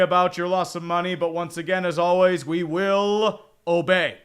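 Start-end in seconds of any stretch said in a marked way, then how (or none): 2.4-4.2 slow, drawn-out ritual chant; mock-devout pledge to the chat; mock solemn vow. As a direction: intone it like a cult oath. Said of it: "solemn chant for the chat".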